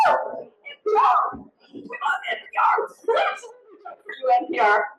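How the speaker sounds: high, airy gush of delight with a laugh; mock fangirl squeal. Studio greeting NPR as eager fans, high gushing squeal. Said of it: "we were like".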